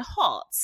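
"hot" with a rounded British o; English pronunciation. Shown as a demonstration. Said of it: "the way we say it in England".

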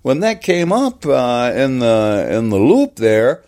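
put-on high, amazed American accent; wowed, then emphatically apologetic American; David Fincher. Director amazed by the growl, high American accent. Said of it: "first American accent I could, comes to mind".

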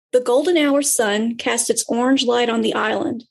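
steady storybook reading; story narration. Acted. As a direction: read it like a storyteller. Reads a story aloud.

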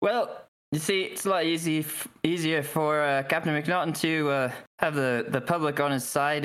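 lightly voiced hesitant guard; Mintarn guard. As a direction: explain it haltingly as the guard. Game master voicing the guard's explanation.

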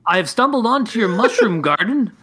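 shouting back. Acted. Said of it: "I shout back".

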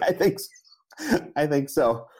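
very high, slow squeaky surrender; defeated kid. Retold or imitated. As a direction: squeak it out, overwhelmed and beaten. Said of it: "And I was like".

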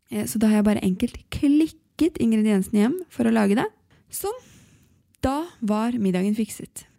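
upbeat podcast ad read. Acted. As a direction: sell it like a sponsor spot. Reads a sponsor ad.

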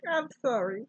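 high, babyish mock apology; hammed-up girlish impersonation; Melanie Griffith. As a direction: put on a little girl's voice. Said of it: "Your Melanie Griffith is so funny".

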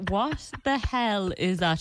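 slow, drawn-out mock disbelief; mock bafflement. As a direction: imitate someone slowly baffled. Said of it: "Shane is like".

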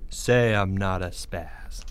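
slow, low, controlled order; calm demand. Acted. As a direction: dictate it slowly and coolly. Greg calmly demands it of Porge.

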